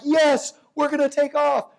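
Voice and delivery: mock the eager optimists. Mocking forecasters who say growth will boom. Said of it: "some people are like".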